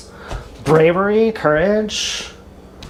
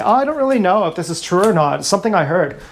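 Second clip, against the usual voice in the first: mock unsure hedging; faster than usual. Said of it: "when you say".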